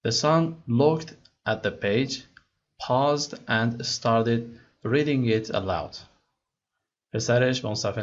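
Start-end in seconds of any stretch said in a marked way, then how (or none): 0.1-6.0 slow, careful read-aloud of English text; slow story reading. Acted. Teacher reading the English story to students slowly. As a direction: read each word slowly for learners.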